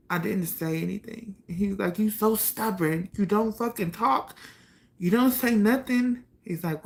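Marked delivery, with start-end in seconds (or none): 2.0-6.2 frustrated scolding, higher, building to louder; angry brother. Retold or imitated. Brother scolding his silent sister, higher and building louder. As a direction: scold her for staying silent, rising in anger. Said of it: "he just was so pissed off".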